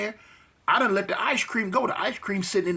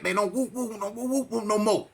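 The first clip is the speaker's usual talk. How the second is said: mocking gang retort; 3 semitones higher than usual. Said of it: "He said it like that".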